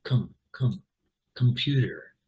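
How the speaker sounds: "com" reduced to a short "kum", then the whole "computer"; schwa first syllable. Shown as a demonstration. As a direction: say "com-" with an uh, not an O. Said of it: "schwa, uh".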